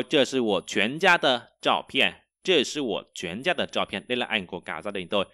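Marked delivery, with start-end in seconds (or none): 0.0-2.1 slow, clear Chinese model sentence; slow teacher model; slow model reading. Shown as a demonstration. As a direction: read it slowly for students to copy.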